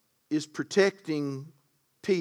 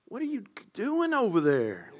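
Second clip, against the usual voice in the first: higher-pitched, puzzled call-out to a helper; playful scolding; 5 semitones higher than usual. Real, not acted. Preacher to the verse operator mid-sermon, playful scolding. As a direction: toss out a teasing challenge mid-sermon.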